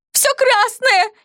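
high, slow howling wail; wailing shriek. A narrator's reading. Zosia wailing nonstop at the bloodied friend. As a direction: howl it on and on. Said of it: "Не переставая выла Зося".

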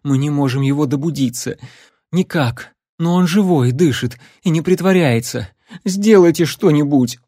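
panicked pleading. Acted.

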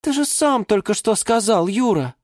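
high-pitched wheedling reminder; sly. A narrator's reading. Geranium reminds Юра of his praise, sly. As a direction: coyly hold him to his word. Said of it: "хитро прищурилась герань Антонина".

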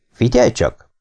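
calm, understated opening. A narrator's reading. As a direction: take it down to an even calm. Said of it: "szólalt meg nyugodtan Greg". (nyugodt, visszafogott megszólalás)

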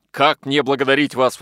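overwhelmed father's cry of gratitude; exclaiming. A narrator's reading. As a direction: burst out with thanks. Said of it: "воскликнул он".

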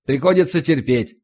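ordinary delivery, nothing marked

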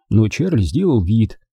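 ordinary delivery, nothing marked

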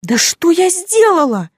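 high, loud blubbering cry; choking on tears. Acted. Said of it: "выкрикнула я, захлёбываясь слезами".

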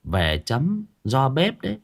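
put-on old woman spinning a ghost tale; lightly voiced old village woman. Old woman telling Uncle Hà about the buried child, lightly voiced.

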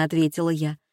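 usual speaking voice

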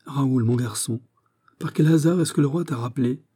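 joyful greeting. Acted. Captain spotting his friend's son, joyful. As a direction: greet him with pleased surprise. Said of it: "pousse un grognement de joie".

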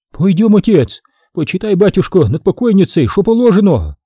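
high, begging crone voice; old crone begging him to read; pleading old woman. A narrator's reading. Old woman begs the priest to pray over the dead.

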